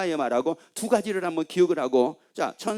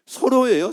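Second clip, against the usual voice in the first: 서로예요 called out high and loud, both syllables hit hard; preacher stressing 서로예요 to the congregation, louder and higher; emphatic stress; 5 semitones higher, 7 dB louder than usual. Real, not acted. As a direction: drive home the word 서로 with a loud, high call. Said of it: "일방이 아니라 서로라고요".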